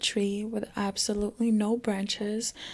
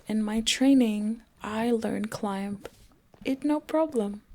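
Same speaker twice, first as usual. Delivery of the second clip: put-on Russian accent. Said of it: "In a thick Russian accent".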